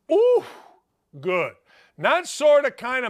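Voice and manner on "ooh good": amazed. Retold or imitated. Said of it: "I went".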